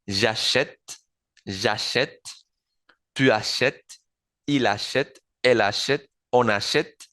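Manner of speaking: j'achète said zha-shet, open e with grave accent; achète with an open è, shet; French conjugation. Shown as a demonstration. Teacher drills the conjugation, achète with open è. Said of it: "lo novedoso acá".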